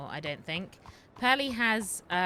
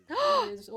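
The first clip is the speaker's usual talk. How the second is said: excited gasp; 6 dB louder than usual. Acted.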